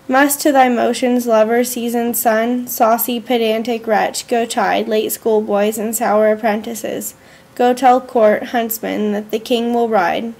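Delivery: slow, measured reading of a poem; slow poem recitation. Acted. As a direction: read each line slowly and deliberately. Reads a poem aloud.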